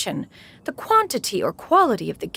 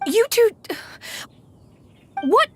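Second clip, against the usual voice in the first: sharp scolding call; 12 semitones higher than usual. Acted. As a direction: snap at them sternly.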